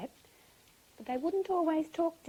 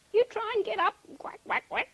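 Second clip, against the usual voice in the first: high duck urging, ending in quacks; high, quacking pep talk; encouraging duck; 9 semitones higher, 3 dB louder than usual. A narrator's reading. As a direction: coax a fallen friend as a duck. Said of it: "And then he said".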